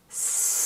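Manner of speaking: long hissing s; drawn-out s like a snake. Shown as a demonstration. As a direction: let the hiss run out. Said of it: "with your own pace".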